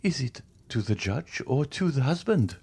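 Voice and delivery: frightened stammer. A narrator's reading. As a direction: falter as if afraid of the answer. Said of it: "stammered Madame de Villefort".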